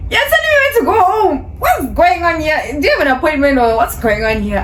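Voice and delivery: very high, incredulous outburst; hammed-up, high-pitched indignation; outraged disbelief. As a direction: demand answers in an indignant squeal. Outraged reaction to being dismissed.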